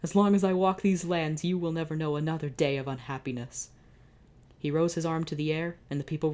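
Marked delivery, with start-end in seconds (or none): 0.0-3.7 king's vow. Acted. King's grand public vow.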